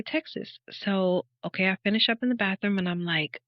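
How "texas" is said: high whispered Texas; God's whisper. Retold or imitated. God answering her in the bathroom, whispered. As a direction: breathe the word out like a divine whisper. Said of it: "I heard him say".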